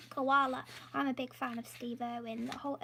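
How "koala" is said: loud mock-Australian accent; bad Australian accent. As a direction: do a jokey, poor Australian accent. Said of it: "probably a really bad accent".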